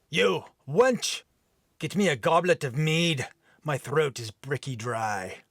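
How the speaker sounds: mild Viking bark. Acted. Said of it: "rough, deep brogue accent".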